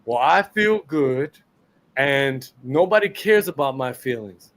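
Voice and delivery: low, mopey mock of a player whining; mocking Vientos. Host mocks a whining player's feelings, low and mopey. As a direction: sneer it like a sulky player. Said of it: "and say".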